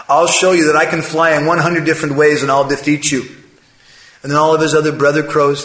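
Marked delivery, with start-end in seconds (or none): 0.1-3.2 louder, acted bragging; boastful challenge. Proud crow boasting to the swans, cocky. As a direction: brag that you will win.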